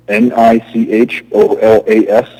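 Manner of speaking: spelling out loudly to be heard; speaking up. Real, not acted. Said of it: "speak a little louder".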